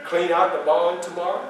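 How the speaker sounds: master's soft, low courtesy; imitated polite request. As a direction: repeat his kindly request, low and hushed. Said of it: "Notice how he said that".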